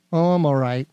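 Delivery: deflated reply. Shown as a demonstration. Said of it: "See, see, okay, so now when you say you're just all right".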